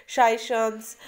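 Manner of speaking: "शाइशंस" with a sh sound in both halves; uncertain pronunciation. Shown as a demonstration. Teacher guessing at a name for students, uncertain pronunciation. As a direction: try "शाइशंस" as shai-shuns, drawn out. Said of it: "इसको क्या pronounce करेंगे".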